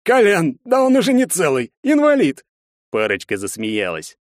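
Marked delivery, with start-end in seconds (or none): 0.0-2.4 jeering thug. Acted. Thug jeers at cripple.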